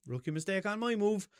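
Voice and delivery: повыше и медленнее, с гордой подачей; тянуть фразу как девиз; mock proud catchphrase. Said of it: "what the fuck I was trying to say".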